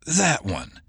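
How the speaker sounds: calmly seal his fate; confirming. Acted. Fetching confirms her target to Oates before shooting.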